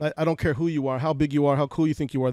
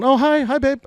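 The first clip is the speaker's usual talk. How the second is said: much higher and louder, sweet mock mom greeting; imitating mom; 11 semitones higher, 7 dB louder than usual. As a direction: play mom cheerfully picking up the phone. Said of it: "My mom answers the phone".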